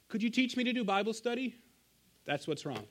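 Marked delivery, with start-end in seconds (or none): 0.1-1.6 a father lightly voicing his upset little girl; upset toddler. Daughter calling her dad at night, high mock-upset child voice.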